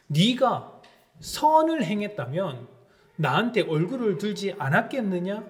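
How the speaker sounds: a hint of a stern God asking Cain why; God questioning Cain. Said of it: "화를 내는 가인에게 하나님께서 되묻습니다". (가인을 꾸짖는 하나님 목소리, 느리고 높게)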